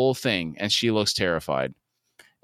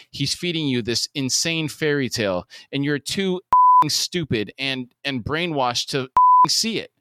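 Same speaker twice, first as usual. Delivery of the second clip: angry; 4 semitones higher, 3 dB louder than usual. Acted. Father yelling at Todd.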